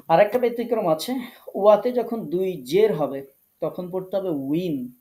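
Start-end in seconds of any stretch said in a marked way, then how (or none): 3.6-4.9 উইন said slowly as win; win ending. Shown as a demonstration. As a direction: drag out উইন, not ইন. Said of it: "তখন আর ইন পড়লে হবে না". (ধীরে উইন উচ্চারণ)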